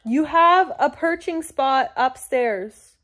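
loud, high, slow telling-off of a cat; pet scolding. Real, not acted. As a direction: scold a pet, drawing the words out.

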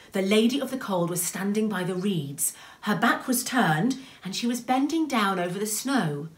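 lilting, suspenseful storyteller; story narration. A narrator's reading. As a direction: tell it with lingering key words. Reads a story aloud.

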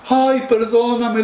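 high, slow plea; drawn-out apology to calm him; pleading wife. Acted. Wife begs the woken dragon's pardon.

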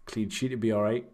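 flat, matter-of-fact manager; deadpan. Retold or imitated. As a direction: say it completely dry. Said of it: "deadpan and went".

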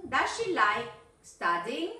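"like" ending on k, no s. Shown as a demonstration. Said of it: "No pronunciar esa S".

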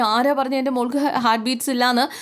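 imitating a frantic brother's cry; mild retold yell. Brother crying out to the doctor over his sister, mild mock yell. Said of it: "Govind അലറുകയാണ്".

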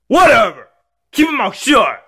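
put-on high-pitched childish defiance; bratty back talk. Kid talking back to dad, bratty.

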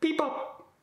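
high, strained oh, jeez, stop; a whiny man struggling with his bed; groaning roommate. Retold or imitated. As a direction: roommate groaning at the moving bed before calling again, high. Roommate groaning and pressing button.

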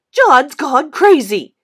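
slow, loud sing-song jeer, drawn out; schoolboy bully yelling a taunt. Acted. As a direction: keep mocking at full voice. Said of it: "Spider yelled".

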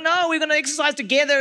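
mildly indignant retold complaint; upset protest. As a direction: protest it quickly, voice lifting. Retells upset protest to son.

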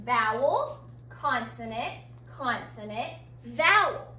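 vowel, consonant, consonant, vowel listed with rising beats; spelling out the pattern. Shown as a demonstration. Teacher to class, listing the letter pattern. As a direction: tick off each letter in turn. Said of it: "So we call this a V".

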